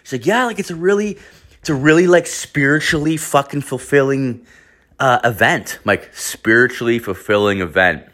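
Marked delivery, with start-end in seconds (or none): 0.3-5.8 higher-pitched imitation, settling toward the end; imitated gushing earnestness. Surrogate justifying herself to a sceptical friend, imitated gushing. 6.1-8.0 unimpressed repeat of her phrase; sceptical echo. Retold or imitated. Friend echoing the surrogate's lofty phrase, sceptical.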